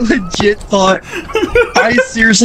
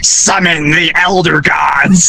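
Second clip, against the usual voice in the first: demonic voice; 3 semitones lower, slower than usual. Retold or imitated. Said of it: "in the most demonic voice".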